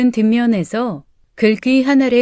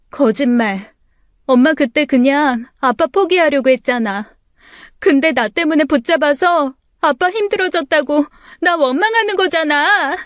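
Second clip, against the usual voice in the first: climbing higher, hurt and bitter; tearful accusation; 5 semitones higher than usual. Acted. Daughter insisting her mother blames her, rising bitterly.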